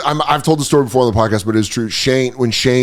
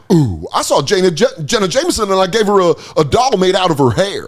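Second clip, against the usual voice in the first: lightly voiced creepy rapper; a hint of a leering Bay Area rapper; mock creepy rapper voice; creeped-out rapper; 5 semitones higher than usual. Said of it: "creeped out E forty".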